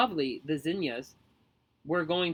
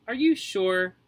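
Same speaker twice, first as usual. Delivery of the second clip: shocked; 4 semitones higher, 6 dB louder, slower than usual. Acted. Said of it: "in a shocked voice".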